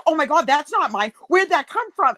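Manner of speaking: high-pitched imitation of flustered denial; mock mortified, pitched well up; mortified protest. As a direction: act out an embarrassed sister disowning it. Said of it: "her face got all red".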